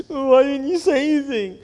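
put-on high kid voice; baffled boy. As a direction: ask like a puzzled child. Boy asks grandma.

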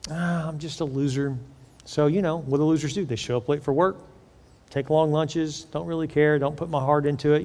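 softly mock a resigned loser; resigned self-talk. A self-declared loser excusing slack work, resigned.

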